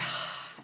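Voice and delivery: soft, audible breathy sigh; demonstrated sigh of pleasure; breathing demo. Shown as a demonstration. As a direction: breathe out heavily as if aroused. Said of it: "your breathing is".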